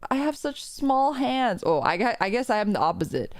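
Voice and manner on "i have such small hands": higher, slow, dainty pick-me voice; mock pick-me girl. Streamer imitating a pick-me girl, high and slow. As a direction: coo it like a pick-me girl, slowly. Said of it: "the pick me thing is like".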